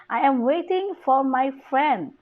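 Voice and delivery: "friend" accented with a falling end; stress on FRIEND. Shown as a demonstration. Teacher shows tonic stress, stress on "friend". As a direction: put the weight on "friend". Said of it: "The stress is on the friend".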